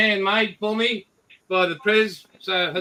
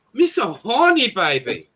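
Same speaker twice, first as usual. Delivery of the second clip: mock Asian accent, lightly done; 4 dB louder, slower than usual. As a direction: put on a hammy Asian accent. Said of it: "I use my best Asian accent".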